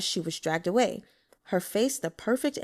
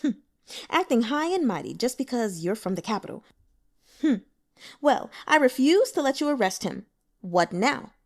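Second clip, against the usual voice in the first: sneering interruption; 3 semitones higher than usual. Acted. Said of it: "cut in with a sneer".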